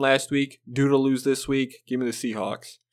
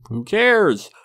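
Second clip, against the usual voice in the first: "Who cares?" pitched higher and louder, fed up; sarcastic fan waving off the question, louder; emphatic dismissal; 7 semitones higher, 4 dB louder than usual. Real, not acted. Repeat of dismissal, pushed harder.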